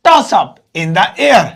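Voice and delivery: each word drawn out, very slow; slow teaching demo. Shown as a demonstration. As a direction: spell out "toss up in the air" slowly for learners. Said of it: "इसे अंग्रेजी में आप बोलेंगे". (धीमे-धीमे सिखाते हुए)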